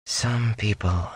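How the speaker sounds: put-on a young tinker answering sadly, slow and soft; heavy sadness. A narrator's reading. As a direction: let the words sink with sorrow. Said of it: "with a heavy sadness".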